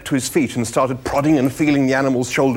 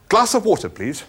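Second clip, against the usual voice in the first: defeated Arthur; 9 semitones higher than usual. A narrator's reading. Arthur giving up on eating, defeated. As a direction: pipe up, then fade to a timid please. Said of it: "said Arthur".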